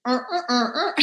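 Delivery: jokey rhythmic "er" grunts; mimicked bedroom noises. Mimics noises behind the euphemism.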